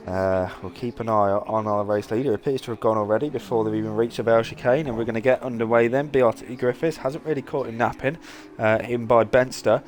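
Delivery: steady play-by-play call of the restart; live race commentary. Acted. Commentator calls the restart to viewers, steady play-by-play. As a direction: call the cars through each corner.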